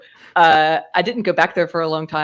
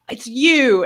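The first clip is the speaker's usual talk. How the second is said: higher, drawn-out accusing "you"; startled recognition; 5 semitones higher than usual. Retold or imitated. Coffee shop man spots the maskless customer, startled recognition. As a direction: act out catching someone out.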